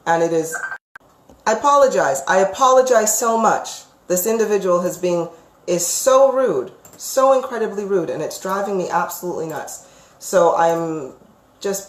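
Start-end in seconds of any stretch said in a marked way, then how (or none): 1.4-9.9 agitated. Real, not acted. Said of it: "getting a little bit agitated and frustrated".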